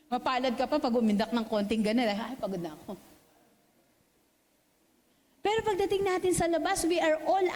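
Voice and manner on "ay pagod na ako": mock tired sigh.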